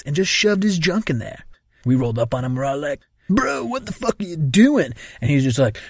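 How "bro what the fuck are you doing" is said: high-pitched mock disbelief; incredulous quote. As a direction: imitate a shocked friend. Friends confronting him in the story.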